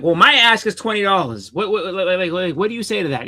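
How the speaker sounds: heated, insistent comeback; retold angry retort. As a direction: throw the seller's phrase back at him. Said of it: "I said it just like that 'cause I was angry".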